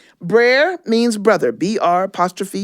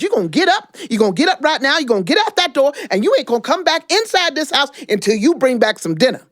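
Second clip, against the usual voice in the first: higher, insistent scolding wife; 6 semitones higher, faster than usual. Acted. Sis Rabbit ordering lazy Brer Rabbit out, scolding. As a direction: order him out the door, sharp and high.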